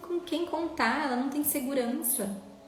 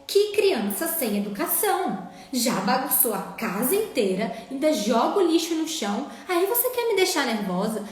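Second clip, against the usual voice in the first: mock scolding parent; 3 dB louder than usual. Mother imitating a negligent parent scolding her child, mock angry. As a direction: play the fed-up parent who blames the child. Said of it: "Não é isso que a gente falaria?".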